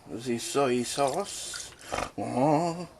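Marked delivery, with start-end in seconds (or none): 0.1-1.7 slow, hammed-up French accent; bad French accent. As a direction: drag it out in fake French. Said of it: "a really bad French impression".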